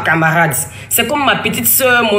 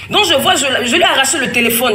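laughing; 6 semitones higher, faster than usual. Real, not acted. Retelling snatching the phone, laughing.

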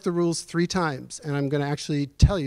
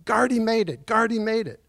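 high, bright retelling of a mother's joyful cry; mother dancing through the house, calling out in joy; joyful exclaiming; 6 semitones higher than usual. Retold or imitated. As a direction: relive her elation at the good news. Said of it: "She was dancing around the house saying".

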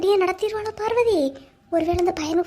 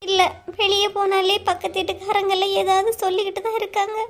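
upset, higher-pitched complaint; tearful; 4 semitones higher than usual. Acted. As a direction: confide your fear on the verge of tears. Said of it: "எதுக்கு அழுதுட்டு இருக்கா". (அழுகையோடு பயந்த குரலில்)

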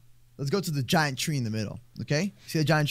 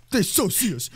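raised, worried realisation; rising alarm; 5 semitones higher, slower than usual. Real, not acted. Hidden player realises they are seen, rising alarm. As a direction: say it with growing alarm.

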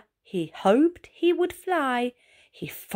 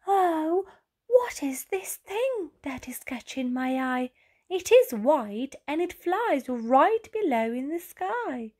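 curious wonder; 6 semitones higher than usual. Acted. Ray spots something below.

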